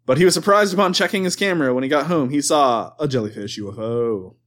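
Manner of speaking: measured news-report read; newscaster voice. Acted. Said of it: "I don't know why I'm doing this voice".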